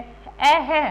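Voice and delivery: इसमें अ है said very slowly, sound by sound; slow demo. Shown as a demonstration. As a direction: drag out the अ and the है. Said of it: "अब इसमें आप देख रहे हो". (बहुत धीरे उच्चारण)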